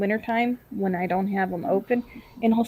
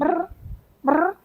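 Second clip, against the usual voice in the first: cat trill; 6 semitones higher than usual. Retold or imitated. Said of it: "Smudge will ... murring chirr".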